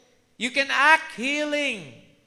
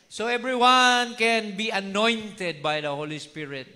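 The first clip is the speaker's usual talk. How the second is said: ordinary talk, nothing marked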